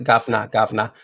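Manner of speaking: light London "guvnor" imitation; London-ish accent. British guest explaining which accent that was, light London accent. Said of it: "going more London-ish when you talk like".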